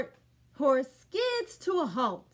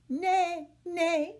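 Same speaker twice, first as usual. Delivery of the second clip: neigh; 5 semitones higher, 4 dB louder than usual. Shown as a demonstration. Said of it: "the horse makes".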